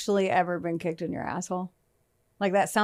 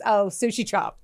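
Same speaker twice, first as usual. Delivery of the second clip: put-on West Virginia accent. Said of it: "with her West Virginia accent".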